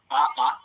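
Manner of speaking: "आ" drawn out high and loud from the throat; vowel demo. Shown as a demonstration. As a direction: sing out "आ, आ" as a throat sound. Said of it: "मैंने आपको स्वर में बता दिया".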